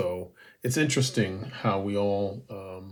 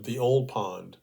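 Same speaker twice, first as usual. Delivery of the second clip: quoting a translated haiku, measured; poem reading; 4 dB louder than usual. Acted. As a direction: read the haiku slowly, pausing between lines. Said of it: "Allen's first, his translation".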